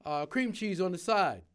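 mock shout of a bagel order. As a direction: order called out loudly across the kitchen. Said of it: "he shouted out".

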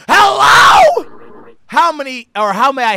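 high, loud startled hello; loud shout. Real, not acted. Answering the store phone, loud. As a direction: bellow into the phone.

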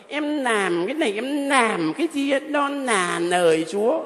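slow, lightly clumsy country speech; a mild mock of a village speaker; mispronounced rustic talk. Priest imitating the apostles' rustic speech, lightly mocking. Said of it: "Ngọng nghệu vậy đó".

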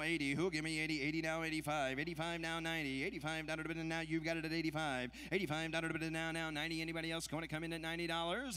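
rapid rhythmic bid chant; auctioneer. Acted. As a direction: rattle off the numbers in a rolling chant. Live charity auction bid calling.

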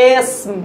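"এসম" starting on short e, sm run together; correct pronunciation. Shown as a demonstration. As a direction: say "এসম" with no vowel between s and m. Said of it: "উচ্চারণটা হচ্ছে".

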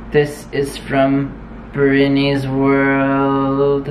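very slow, drawn-out robot voice; alien robot voice. Pretend. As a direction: stretch it out like a robot. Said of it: "I am an alien robot".

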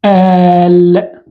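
"سآل" slowly split at the hamza, long aa; نطق مفكك للأصل. Shown as a demonstration. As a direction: draw out "سآل" in two separated parts. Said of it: "أصلها هكذا". ("سآل" ببطء مع مد الألف)

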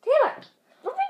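sharp loud call of a name. Real, not acted. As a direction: yell her name across the room. Calling her sister to join.

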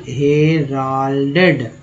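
हेराल्डेड drawn out slowly, he-ral-ded; slow model word हेराल्डेड; careful pronunciation. Shown as a demonstration. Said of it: "next है हेराल्डेड".

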